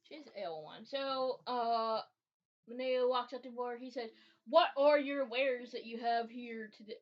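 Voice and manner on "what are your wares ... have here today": put-on stiff, old-timey formal phrasing, a bit louder; odd formal merchant-speak. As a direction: ham up a quaint adventurer's greeting. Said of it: "I don't know why he's talking like that".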